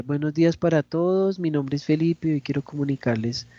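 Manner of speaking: dull opening that sags as it goes; sleep-inducing delivery. Shown as a demonstration. Teacher showing how not to open a presentation, sleepy. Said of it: "ya hasta me dio sueño a mí".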